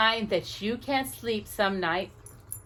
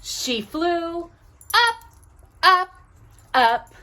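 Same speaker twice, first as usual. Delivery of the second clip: each up higher and louder; rising excitement; 8 semitones higher, 6 dB louder, slower than usual. A narrator's reading. Narrator reading to Jocelyn, building excitement. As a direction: build the climb up, up, up. Angel flies up the moonbeam.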